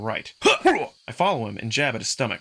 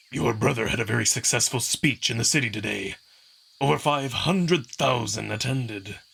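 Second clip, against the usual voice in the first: strict trainer scolding a late pupil; stern Kato. Acted. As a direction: rebuke with icy calm. Kato needles Amicus.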